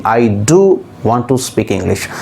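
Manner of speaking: low-pitched sentence with an emphatic "do"; stress on "do". Shown as a demonstration. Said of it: "it is emphasizing".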